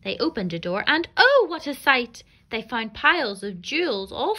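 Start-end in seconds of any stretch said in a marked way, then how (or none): 0.9-2.2 high, loud gasp of wonder; amazed. A narrator's reading. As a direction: marvel at the treasure. Finding piles of jewels.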